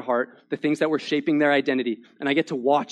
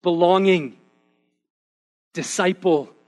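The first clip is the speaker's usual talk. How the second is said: raised, punchy testimony delivery; preacher building conviction; emphatic preaching; 3 semitones higher, 4 dB louder than usual. Acted. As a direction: proclaim each word to the congregation.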